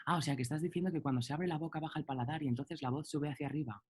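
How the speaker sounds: quick mock student confirming; eager student. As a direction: imitate a know-it-all, fast. Alumno que confirma, imitado. (alumno sabelotodo imitado, rápido)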